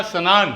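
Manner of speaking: 'sa-naan' for स्नान, a vowel after the s; full 'sa' sound. Shown as a demonstration. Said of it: "Hindi में लिखा स्नान".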